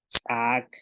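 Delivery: "tsak" with ejective ts popped before the vowel; glottalised TS. Shown as a demonstration. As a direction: glottal catch after the ts in "tsak". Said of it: "con la glotal".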